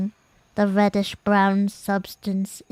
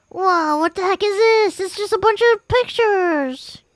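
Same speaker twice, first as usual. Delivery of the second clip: high surprised exclaim; 10 semitones higher, 4 dB louder than usual. Real, not acted. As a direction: react with sudden surprise. Surprised at pictures.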